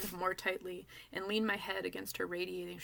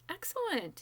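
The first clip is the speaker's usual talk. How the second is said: kindly; 11 semitones higher than usual. Acted. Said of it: "he smiles kindly".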